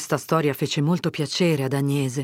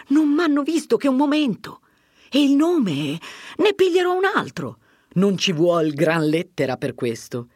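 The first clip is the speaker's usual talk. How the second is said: put-on much higher, lively young man; Fermo, eager and defiant; 4 semitones higher than usual. Fermo tells Agnese nobody in Milan will know him, eager. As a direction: toss off the danger with hope.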